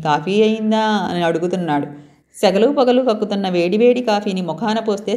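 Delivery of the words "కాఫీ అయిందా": slow, leisurely coffee అయిందా? drawn out like a master of the house; lordly coffee demand. Acted. The stranger lounging in the kitchen doorway asks Shruti about coffee, slow and lordly. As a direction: ask for coffee as if you own the place, slowly. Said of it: "పెద్ద దర్జాగా".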